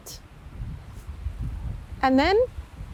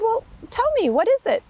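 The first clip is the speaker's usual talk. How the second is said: put-on old man; 10 semitones higher than usual. Old man asks kindly.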